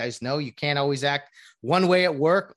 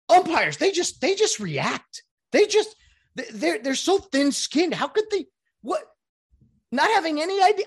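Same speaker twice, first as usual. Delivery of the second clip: high, scoffing imitation of the critics; mocking the critics; 11 semitones higher, 4 dB louder than usual. Host mimics broadcaster's view of umpires, mildly mocking. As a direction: sneer at the umpire complainers. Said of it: "his initial thought".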